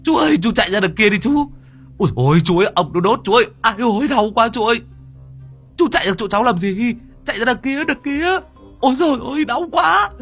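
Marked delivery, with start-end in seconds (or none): 0.0-6.9 very high, loud frantic shouting; panicked high yells of pain; yelling while running. Acted. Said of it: "vừa chạy vừa gào lên". 8.8-10.1 very high, loud pained cry; shrill loud ouch; yelp of pain. Acted. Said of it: "vừa chạy vừa gào lên".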